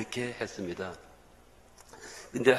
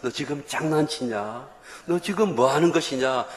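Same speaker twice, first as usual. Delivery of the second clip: rebuking voice; 3 semitones higher than usual. Retold or imitated. Inner voice scolding the pastor, rising angry rebuke. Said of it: "이런 욕하는 것 같았습니다".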